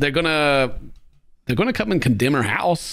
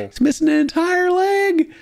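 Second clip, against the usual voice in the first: much higher, slower, incredulous; exasperated disbelief. Real, not acted. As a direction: say it like you can't believe it. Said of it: "What do you mean it's not broken?".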